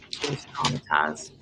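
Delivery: a hint of Nancy Grace's Southern accent; mock Southern accent, dropped low; Nancy Grace impression. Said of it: "Nancy Grace's accent?".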